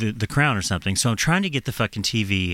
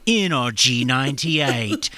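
slow, laughing mock station ident; laughing at the station call she hates; radio jingle imitation; slower than usual. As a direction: drag it out with a laugh, like a cheesy jingle. Mimicking the radio announcer again.

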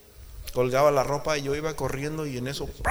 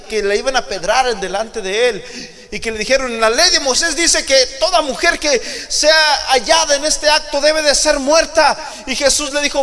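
full-voiced pulpit preaching; preaching at full force; 12 semitones higher, 13 dB louder than usual. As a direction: preach it out to the congregation. Preacher retelling adulteress story.

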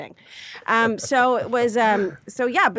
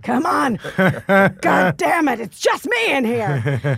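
calling out; 3 semitones higher, 7 dB louder, slower than usual. Retold or imitated. Comedian pulls reluctant Spanish tourists in, loud pleading call. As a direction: mock-desperate call to lure people inside. Dragging tourists into her show.

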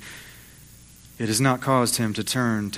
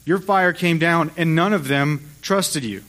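frustrated; 4 semitones higher than usual. Acted. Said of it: "he's frustrated because he said".

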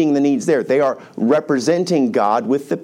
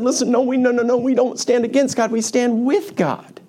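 high-pitched, emphatic correction; insistent declaration; 10 semitones higher than usual. Acted. Levites now refuse to stand against God, insistent. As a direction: declare it firmly, slowing on the last sentence.

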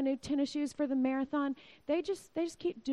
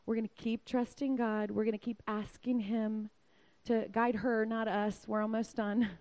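calming dad; 2 semitones lower than usual. Retold or imitated. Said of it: "Daddy calms us down".

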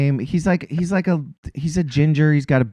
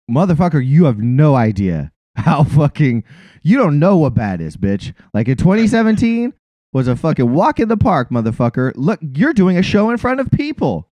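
raised, heated mock tirade at a comedian; mock rant; 5 semitones higher, 3 dB louder than usual. Talking back to a 2017 comedian on video, heated mock rant. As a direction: tell off the smug comic, half-joking and fired up.

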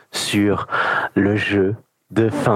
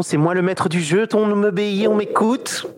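rising to a high, hammy villain voice; unhinged villain; 7 semitones higher than usual. Pretend. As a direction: lord it over them, climbing higher. Plays menacing game master.

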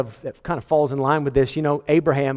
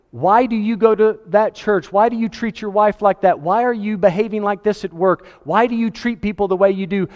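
higher, pressing run of questions; challenging questioner; 6 semitones higher than usual. Acted. Somebody confronting a churchgoer about their behaviour, challenging. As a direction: fire off mock accusing questions, higher. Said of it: "Somebody comes and says".

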